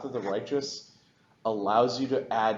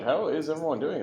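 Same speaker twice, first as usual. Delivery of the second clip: normal talking voice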